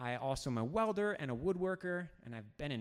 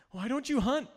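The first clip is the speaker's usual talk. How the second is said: higher and louder, a bit incredulous; a puzzled student's louder question; mock puzzled student; 8 semitones higher, 8 dB louder than usual. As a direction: ask it like a baffled teen boy.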